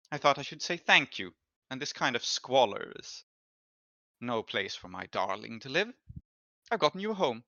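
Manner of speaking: lightly voiced rich patron, smooth and condescending; a hint of a gracious but possessive noblewoman; Tamira, a wealthy noblewoman. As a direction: thank him as if doing him a favour. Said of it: "And she says".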